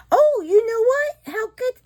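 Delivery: high, loud emotional gush; gush, moved and delighted; touched squeal. Real, not acted. Touched by daughter's gift.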